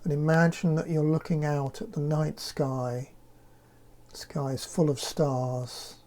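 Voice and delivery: calm, unhurried meditation voice with long pauses; guided meditation. Acted. Leads a guided breathing meditation.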